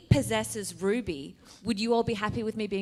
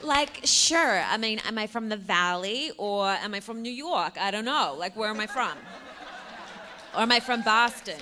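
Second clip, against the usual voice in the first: put-on American accent, trying out regions. Shown as a demonstration. Actor answering a fan's request for an American accent. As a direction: wonder aloud in an American accent. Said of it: "give us your best American accent".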